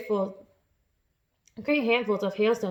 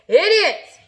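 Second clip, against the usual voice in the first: high, full-voiced insult; yelled; 9 semitones higher, 11 dB louder than usual. A narrator's reading. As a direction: yell as loud as you can. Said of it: "he yelled".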